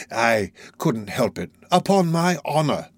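slow, drawn-out plea; Fagin pleading slowly. Acted. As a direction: stretch the excuse out like a wheedling old man.

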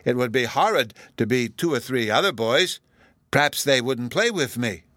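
put-on childlike emphatic "wouldn't play with me"; great emphasis. A narrator's reading. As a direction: stress "horrid" like an earnest child. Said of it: "Bruno said with great emphasis".

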